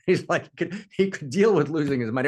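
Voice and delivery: laughing. Real, not acted. Laughing while telling beggar's reaction.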